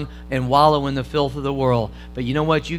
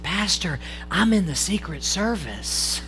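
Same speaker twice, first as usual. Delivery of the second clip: softer, slow confiding punchline; whispered back; 7 dB quieter, slower than usual. Retold or imitated. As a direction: lean in and whisper the secret. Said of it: "he whispered back and he said".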